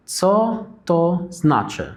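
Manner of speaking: "Co to znaczy" said slowly in one breath; slow demo. Shown as a demonstration. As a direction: model the whole question slowly. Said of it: "يعني إيه الكلمة دي؟".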